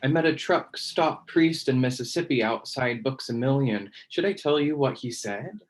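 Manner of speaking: measured, deliberate poem recital; poetry reading. Acted. Poet reading own poem to online audience, measured recital. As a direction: recite it line by line, pausing between phrases.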